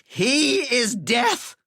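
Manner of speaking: high, slow frantic cry; frantic accusation. Acted. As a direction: accuse him in terror. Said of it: "responded Walter, pointing".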